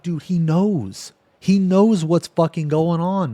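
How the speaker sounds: slow stressed "he knows"; slow, dawning realization. Retold or imitated. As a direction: spell it out slowly as it sinks in.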